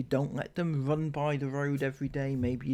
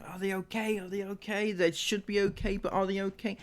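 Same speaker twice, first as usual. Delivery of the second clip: mock parental worry; 5 semitones higher than usual. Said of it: "you stress out".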